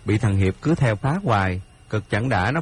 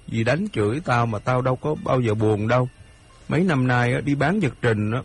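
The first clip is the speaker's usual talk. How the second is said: put-on slightly higher voice for a hurt boy; lightly voiced aggrieved Hiệp; 3 semitones higher than usual. Hiệp tells his friend about his stepmother, lightly voiced grievance. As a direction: lightly play a wronged stepchild pleading his case.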